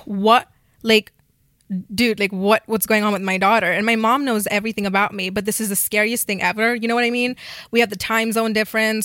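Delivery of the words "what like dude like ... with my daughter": mock shocked mom, louder; shocked, confused mom asking what's wrong. Mom reacting to the church auntie, mock shocked and louder. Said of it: "my mom is like".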